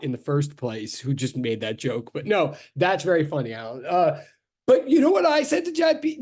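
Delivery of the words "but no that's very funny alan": low, dry sarcasm; deadpan teasing; sarcastic. Real, not acted. Teasing Alan again.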